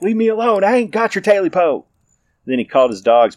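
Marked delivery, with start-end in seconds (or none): 0.0-1.9 high, loud frightened yell; scared yell. Acted. Terrified man yelling at the unseen creature, high loud. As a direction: yell back in terror. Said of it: "Jake yelled back".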